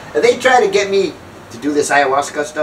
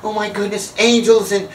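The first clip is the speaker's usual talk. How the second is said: higher-pitched imitation of rapture; hammed-up blissful raving; mock awe; 4 semitones higher than usual. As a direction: gush as if overwhelmed by wonder. Retelling her rapture after the trip.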